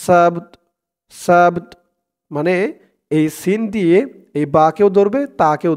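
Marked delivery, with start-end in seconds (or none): 0.0-1.8 "সাবত" stopped on b and t, no final vowel; pausal pronunciation. Shown as a demonstration. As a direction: close "সাবত" on a lightly released t. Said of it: "উচ্চারণটা এমন হয়েছে".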